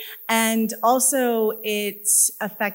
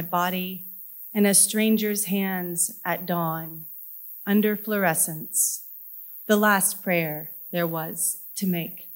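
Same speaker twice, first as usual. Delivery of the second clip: measured poem recital with deliberate pauses; poetry reading. Acted. Poet reading a kidney surgery poem to an audience, measured recital. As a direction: read it as verse, each phrase set apart. Reads own poem aloud.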